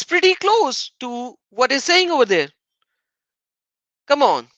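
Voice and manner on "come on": ordinary talk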